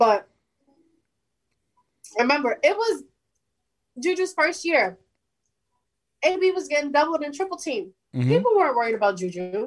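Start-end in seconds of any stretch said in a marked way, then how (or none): 0.0-7.9 talking while chewing, mouth full of food. Discussing a receiver's first season while eating chicken, talking with mouth full. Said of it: "I have chicken in my mouth".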